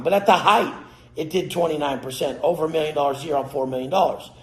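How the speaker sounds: ordinary talk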